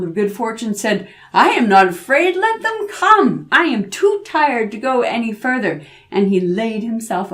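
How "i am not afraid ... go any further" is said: put-on louder, defiant young hero, soaring on let them come; brave boy. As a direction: stand firm though exhausted. Boy defies danger.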